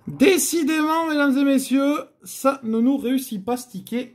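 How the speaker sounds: high mock-announcer exclamation to the audience; mock showman. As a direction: play the dismayed game-show host. Host addressing viewers after loss. (annonce de présentateur faussement consterné, plus aiguë)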